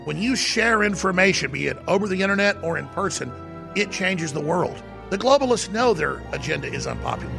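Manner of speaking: soft radio promo read. Acted. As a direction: read it like a station ad. Reads an InfoWars promo.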